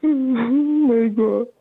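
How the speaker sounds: put-on sobbing pleas, pitch swinging wildly; fake crying. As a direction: wail for pity like a staged breakdown. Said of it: "Son, please don't cry".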